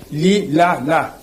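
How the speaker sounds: "Li, la, la" as separate open syllables; syllable-by-syllable demo. Shown as a demonstration. Teacher showing that the language is built of syllables, syllable by syllable. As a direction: sound out "Li, la, la" one by one. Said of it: "C'est comme ça que la langue est composée".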